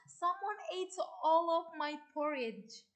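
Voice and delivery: a mild hint of a crying baby bear; lightly voiced baby bear, whiny. Teacher reads the baby bear's cry to the class, mildly tearful. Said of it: "The baby bear cried".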